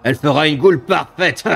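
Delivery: slow, savouring monster voice; gloating demon. Acted. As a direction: relish every word like a predator.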